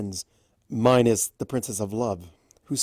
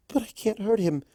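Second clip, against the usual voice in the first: timid voice; 10 semitones higher than usual. Acted.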